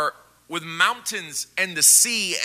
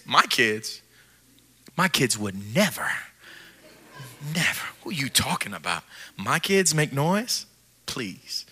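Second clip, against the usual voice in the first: offended parent; 8 semitones lower, 10 dB quieter than usual. Acted. Offended parent denies kids' noise.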